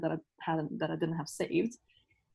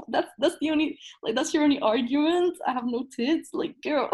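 higher-pitched, amused incredulity; retold laughing comeback, pitched up; laughing disbelief; 4 semitones higher than usual. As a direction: retort through laughter, as if it's absurd. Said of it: "I just started laughing".

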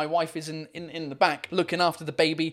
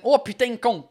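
southern French swearing in a Marseillais twang; Marseille accent; 4 semitones higher, 3 dB louder than usual. Shown as a demonstration. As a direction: toss out a Marseille-accented curse. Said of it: "in the Marseillais accent".

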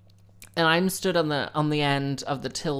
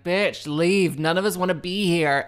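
louder exasperated snap; 2 semitones higher, 4 dB louder than usual. Retold or imitated. Fed-up shopper behind the dithering woman, a louder snap. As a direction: tell her to get out of the queue. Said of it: "And I'm like".

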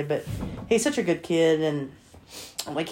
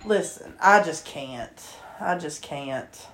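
overwhelmed; 4 semitones lower, 5 dB quieter, slower than usual. Real, not acted. Overwhelmed, fading.

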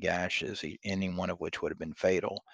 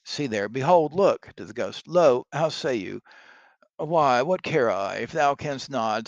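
loud, alarmed Macbeth; hammy stage actor; 3 semitones higher, 6 dB louder than usual. Acted. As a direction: point at the ghost in horror. Macbeth points out the ghost.

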